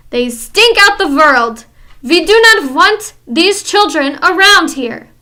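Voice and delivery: loud, disgusted witch voice; ranting witch. Acted. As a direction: rage at the children.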